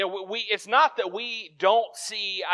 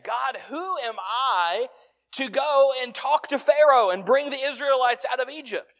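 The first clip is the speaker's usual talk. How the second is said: pleading Moses; 4 semitones higher, 4 dB louder than usual. Retold or imitated. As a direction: beg God to send someone else. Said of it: "That's what he's saying".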